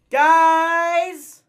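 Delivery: very loud, long yelled call; desperate shout. Acted. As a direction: scream it out, abandoned. Calling out for friends.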